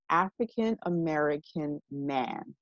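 "African American man" picked out word by word; imitated pointed enunciation of "African American man"; deliberately enunciated. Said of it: "She specifically enunciated".

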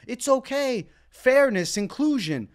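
mocking quote. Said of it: "they're standing on this as".

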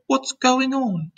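high, drawn-out startled question; alarmed cry. A narrator's reading. James leaping out of the hammock, alarmed cry. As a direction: stretch it out high and bewildered. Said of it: "cried James".

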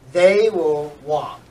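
slow, clear sentence for students to follow; slow read for repeating. Shown as a demonstration. Teacher reads for students to repeat after. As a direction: read it slowly so they can repeat. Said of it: "Please follow".

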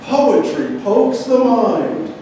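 recital built in short, separated phrases; poetry reading. Acted. Reading on to a live audience, phrased poetry reading. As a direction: recite the list piece by piece, then lift. Continues reading poem aloud.

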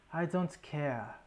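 lightly imitated African accent, slow; a slow hint of T'Challa's African accent. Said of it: "however that African accent goes".

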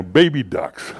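lightly imitated upset aunt; a milder go at the aunt's pet oath; mock-upset, drawn out a little; Aunt Miriam. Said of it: "he would sound just like her".

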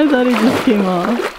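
very loud, urgent cry; alarmed shout. Real, not acted. Companion thinks the hooked fish got away, alarmed shout. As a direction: shout it over the river in alarm.

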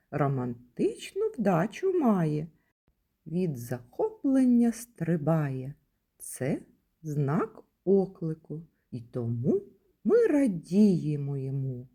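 playful rhyme, read with lively expression; teacher reciting a verse about the exclamation mark; poem for children. Acted. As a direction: recite it like a game for little kids.

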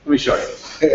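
breezy and sure of it; show-off confidence, high on easy; cocky. Retold or imitated. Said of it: "I'm like".

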